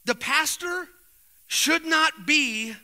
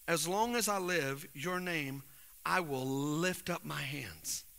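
much softer, slow and low; soft worship quote; 9 semitones lower, 11 dB quieter than usual. Retold or imitated. Pastor quoting a psalm to the men, soft and slow. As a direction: hush down, almost reverent.

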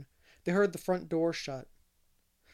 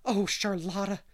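higher, lightly gleeful exclamation; gay cry; 4 semitones higher, 4 dB louder than usual. A narrator's reading. Anne rejoices with Charlotta after dancing, gay cry. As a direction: call it out happily. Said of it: "she cried gaily".

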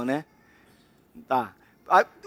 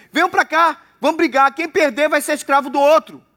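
Goliath taunting; 4 semitones higher than usual. Acted. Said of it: "na boca de Golias".

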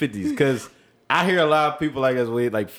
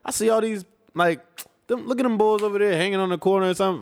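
put-on young Philly talk; 4 semitones higher than usual. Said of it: "I was like".

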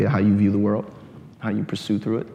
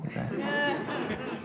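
laugh; 8 dB quieter than usual. Real, not acted. Laughing at own joke.

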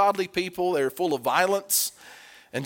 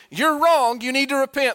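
prophet's rebuke; 7 semitones higher, 5 dB louder than usual. Acted.

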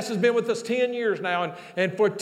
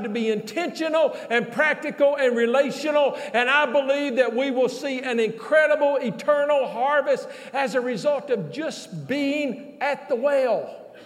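driving, raised sermon climax; impassioned preaching; 3 semitones higher than usual. Real, not acted. Preacher tells congregation who truly saves lives, impassioned proclamation. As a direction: press forward and build with conviction.

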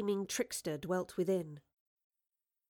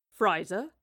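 low, slow, whispered creature; inhuman creature voice; 4 semitones lower, 4 dB quieter, much slower than usual. Acted. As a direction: draw it out like a dying monster. Inhuman creature speaks to Marlowe.

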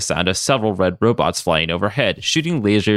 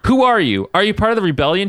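narrated shout; 10 semitones higher, 3 dB louder than usual. A narrator's reading. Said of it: "he shouted".

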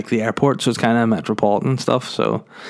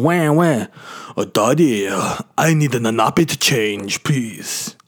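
wailing put-on baby accent; whiny drawn-out plea from a crying newborn; imagined baby voice; slower than usual. Baby asking daddy for a nappy change, mock wailing. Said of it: "what I like to imagine is her going".

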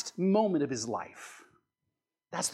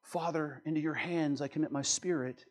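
soft, hushed imitation of a dying prayer; whispered; 3 semitones lower, 9 dB quieter than usual. Preacher imitating a film Jesus's last words, hushed. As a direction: drop low into a near-whisper. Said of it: "He whispers".

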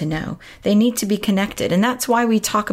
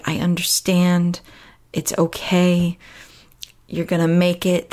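gentle reassurance. Retold or imitated. Parent comforting a worried kid before school, gentle reassurance. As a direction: voice a parent reassuring a child, unhurried.

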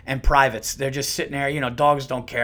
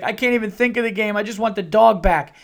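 put-on higher, louder worried kid voice; imitating son; 7 semitones higher, 5 dB louder than usual. Son worried about the dog before his game, whiny. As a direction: voice the upset eight-year-old. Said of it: "he's like".

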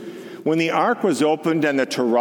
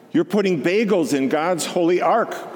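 cried out; 6 semitones higher than usual. A narrator's reading. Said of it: "cried Grandpa".

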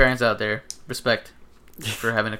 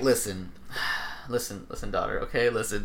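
mock-fatherly, quieter, halting lead-in; dad talk; 2 semitones lower, 5 dB quieter than usual. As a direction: sigh and gently sit the daughter down. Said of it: "being a dad".

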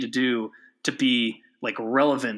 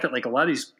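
talking while choking on beer; words caught by a swallow gone wrong; choking on a drink. Real, not acted. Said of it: "sorry, I'm choking on my beer".

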